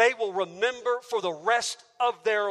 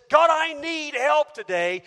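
loud, higher desperate plea; a worshipper calling God for help, imitated cry; 6 semitones higher, 6 dB louder than usual. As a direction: shout it up to heaven. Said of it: "cries unto the heavens and says".

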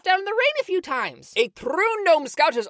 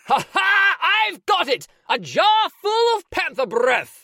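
triumphant shout; 3 dB louder than usual. Acted. Triumphant catch of the breath.

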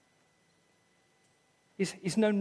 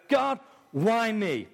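plaintive cry; 5 semitones higher, much slower than usual. Acted. Preacher voicing despairing believer.

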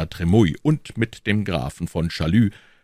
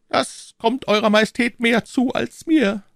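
high, cool and unhurried cardinal; cardinal's calm voice, raised pitch; phlegmatic cardinal; 4 dB louder than usual. A narrator's reading. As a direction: say it with utter composure.

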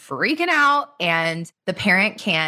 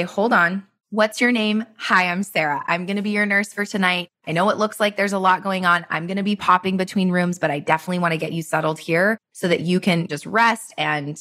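settled, reassuring bedside manner; unhurried introduction. Acted. Nurse introducing herself to a new triage patient, calm and reassuring. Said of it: "whereas you may still have to move that quickly, but to say".

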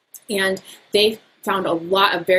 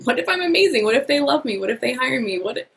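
higher, bright hopeful lift on each question; upbeat what ifs; 6 semitones higher than usual. Shown as a demonstration. Coach demonstrating positive what ifs to a listener, upbeat. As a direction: sell the hope, each what if rising. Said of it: "positive what ifs".

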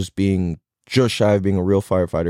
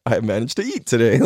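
amused disbelief. Retold or imitated. Mimics own oblivious self.

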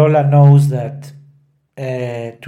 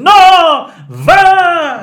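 shouted cry; 9 dB louder than usual. Shown as a demonstration. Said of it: "She's still saying".

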